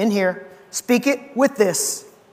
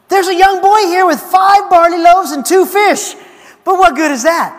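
higher and louder, eager then letting the air out; eager then deflating; 10 semitones higher, 8 dB louder than usual. Retold or imitated. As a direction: hype the find, then shrug it off. Andrew offers then dismisses.

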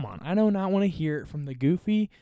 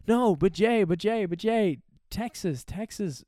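whiny rival fan; 6 semitones higher than usual. Pretend. Mock pleading rival fan.

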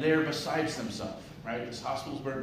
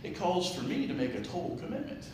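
pig voice; 6 semitones higher than usual. Acted. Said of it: "He goes".

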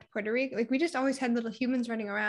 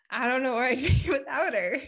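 louder, choked-up laugh on the words; teary laugh; 5 dB louder than usual. Real, not acted. Thanking fate for keeping her dog, a louder teary laugh. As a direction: laugh it out, close to tears.

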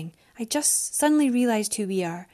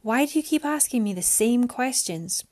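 raised, exasperated woman's voice; frustrated Mariana; 3 semitones higher than usual. Acted. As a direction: argue back, pitch up.

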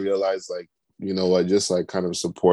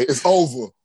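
playful announcement; 6 semitones higher, 3 dB louder than usual. Retold or imitated. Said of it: "I had to say".

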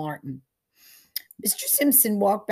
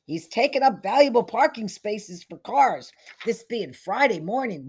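higher, complaining whine; whining; 4 semitones higher, 6 dB louder than usual. Acted. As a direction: gripe about the parking spaces. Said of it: "whined the sheriff".

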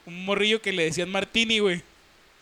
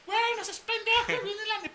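frantic warning; 11 semitones higher, 5 dB quieter than usual. Retold or imitated. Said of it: "gritando con unos huevotes".

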